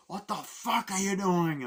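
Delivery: loud, high, slowed-down protest; outraged mock yell. Shot priest protests to the gunman, outraged yell. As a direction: yell it in disbelief, hammed up.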